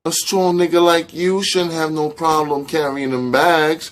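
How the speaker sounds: high, playful woman's teasing. Acted. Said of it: "said Netta playfully".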